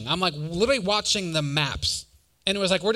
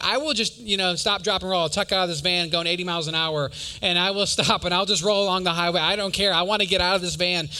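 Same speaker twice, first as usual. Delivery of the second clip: acting out mild exasperation, voice somewhat raised; half-joking frustrated outburst; frustrated rant; 3 dB louder than usual. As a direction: replay a fed-up threat to bail out. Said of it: "getting so frustrated".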